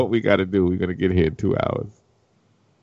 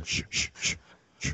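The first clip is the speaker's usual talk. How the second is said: unvoiced shh over and over; whispered shushing; 13 dB quieter than usual. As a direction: hush everyone to listen. Imitating the dad's shushing.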